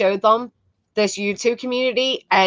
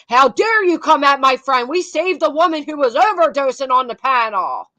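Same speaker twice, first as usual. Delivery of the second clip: mock outrage; 3 semitones higher than usual. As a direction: imitate him getting offended for his friend. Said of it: "he's so ang".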